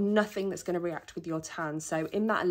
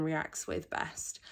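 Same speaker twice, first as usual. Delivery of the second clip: dropping to a whisper; 2 semitones lower, 5 dB quieter, slower than usual. Real, not acted. Drops into whisper.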